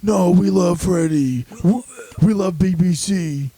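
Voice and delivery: stretched-out mock fan cheer; fans' protest. Acting out the fans' pleas.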